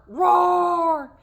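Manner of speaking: lion roar. Shown as a demonstration. Teacher showing children a lion's roar, loud roar. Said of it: "Can you roar?".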